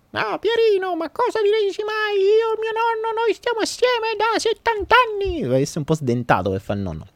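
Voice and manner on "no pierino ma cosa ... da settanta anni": high, cracked granny voice; self-admittedly clumsy old lady voice; old woman voice. Acted. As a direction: play an old grandmother badly. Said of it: "la voce da vecchio".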